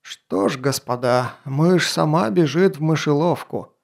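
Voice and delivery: creaky, smug duke's voice. Acted. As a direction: rasp it out with smug satisfaction. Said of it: "скрипучий голос герцога Оржени".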